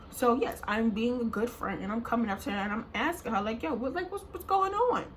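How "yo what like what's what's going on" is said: high-pitched acted questioning; raised-pitch mock concern; retold concerned questioning. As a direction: ask it high, checking on a crying friend. Acts asking crying friend what's wrong.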